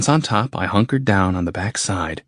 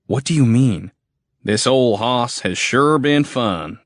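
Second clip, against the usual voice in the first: boastful redneck soldier; 5 semitones higher than usual. Acted. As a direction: brag about the tank. Soldier boasting about tank.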